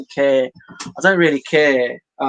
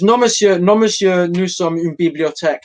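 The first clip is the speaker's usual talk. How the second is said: librarian; 4 semitones higher, 3 dB louder than usual. Retold or imitated. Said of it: "said the librarian".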